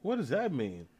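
high, loud outraged "what the fuck"; genuinely taken aback, voice jumping up; shocked disbelief. Real, not acted. Told his people came from Africa, he reacts in shocked disbelief.

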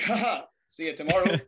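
breezy high laughing brush-off. Retold or imitated. Student laughing off being expelled, high and breezy. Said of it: "I laughed and smiled and everything".

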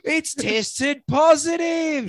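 gasp, then drag it out; surprised gasp. Retold or imitated. Owner gasps at result.

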